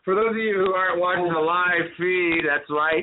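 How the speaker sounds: animated, put-on announcer-like cartoon voice; Cartman. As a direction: put on a cartoon impression for the viewers. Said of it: "That's the best Cartman I got".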